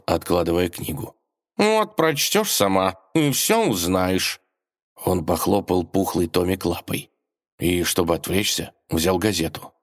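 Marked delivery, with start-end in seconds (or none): 1.6-4.4 a hint of a slow, higher cat voice; lightly voiced cat, dragging it out; lazy cat voice. A narrator's reading. Cat brushing off the princess, slow and lightly voiced. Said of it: "пробормотал кот".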